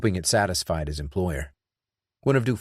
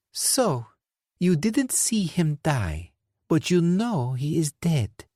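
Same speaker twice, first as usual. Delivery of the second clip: higher, slow, needling; mocking villain; sarcastic Dufour; 9 semitones higher, slower than usual. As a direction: spell out his mistake slowly.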